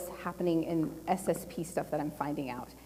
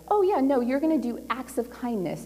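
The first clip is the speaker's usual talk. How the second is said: higher-pitched imitation of a dismissive boss; breezy brush-off; 5 semitones higher than usual. News director switching the promised job, breezy brush-off. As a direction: start high, waving the promise away.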